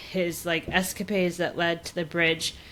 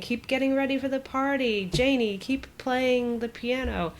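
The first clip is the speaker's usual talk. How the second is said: lightly imitated father, pitched up; flustered dad; 5 semitones higher than usual. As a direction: backtrack like an embarrassed dad, slowing at the end. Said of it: "he realizes he acted a fool".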